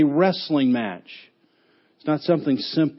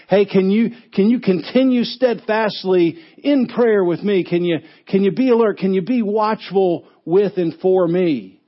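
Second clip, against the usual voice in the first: Jesus asking friends; 3 semitones higher than usual. Retold or imitated. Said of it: "and says".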